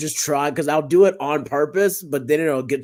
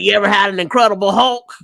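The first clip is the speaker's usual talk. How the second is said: pitching a drink; 6 semitones higher, 6 dB louder than usual. Retold or imitated. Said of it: "he was like".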